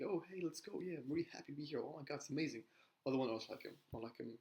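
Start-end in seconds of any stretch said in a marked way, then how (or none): 0.0-2.6 pitched high and bubbly, "let's go"; a lightly mocked gushing client; imitating a happy client. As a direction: play the overjoyed prospect who can't wait. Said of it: "really happy, like".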